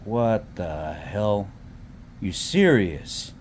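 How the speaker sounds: very slow, dragged-out disbelief; slow stunned what the hell. Retold or imitated. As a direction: let the shock stretch each word. His own stunned reaction.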